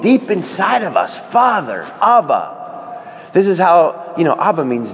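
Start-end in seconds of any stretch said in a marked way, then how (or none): 1.2-2.5 heartfelt longing call. Retold or imitated. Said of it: "we're crying out, longing deep inside".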